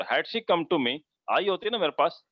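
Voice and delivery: slow stressed had she come; slow, weighted had she come to me; emphatic inversion. Shown as a demonstration. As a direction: lean into it for emphasis. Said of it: "अगर आपको इस पे जोर देना है".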